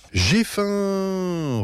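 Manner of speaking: high, abrupt hungry outburst; sudden roar. A narrator's reading. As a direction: blurt it like a mock roar. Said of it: "rugit brusquement maman".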